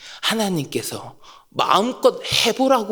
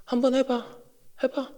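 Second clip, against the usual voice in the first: daring tone; 9 dB quieter than usual. Shown as a demonstration. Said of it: "이런 뉘앙스로 얘기할 때가".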